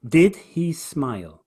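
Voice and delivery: "Did" punched, then slow "he smile"; slow phrase led by a strong "Did"; stress on first beat. Shown as a demonstration. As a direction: hit "Did" hard and slow down. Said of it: "Emphasis on the first beat".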